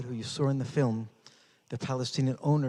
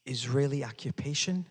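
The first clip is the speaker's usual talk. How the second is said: incredulous echo. Real, not acted. The speaker repeats Ali's words to himself, incredulous. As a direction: echo Israeli occupation in disbelief. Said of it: "Never in my life had I heard".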